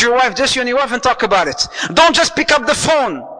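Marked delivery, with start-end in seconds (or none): 1.9-3.3 emphatic warning. Real, not acted. Preacher warning couples.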